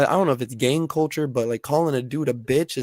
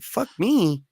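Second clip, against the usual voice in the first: shocked disbelief; 11 semitones higher, slower than usual. Retold or imitated. Acted stunned reply to insult.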